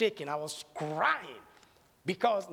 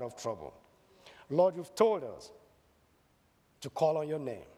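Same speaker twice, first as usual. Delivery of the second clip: closing prayer; 2 semitones lower than usual. Acted. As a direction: pray to the Lord for the whole congregation.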